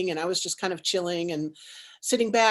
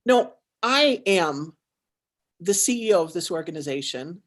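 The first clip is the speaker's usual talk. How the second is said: firm declaration; 3 semitones lower than usual. Retold or imitated. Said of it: "turned around and said".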